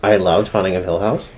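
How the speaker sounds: said round a mouthful of donut; words muffled by chewing; mouth full. Real, not acted. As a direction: talk through a bite of donut. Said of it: "Sorry, I'm eating a donut".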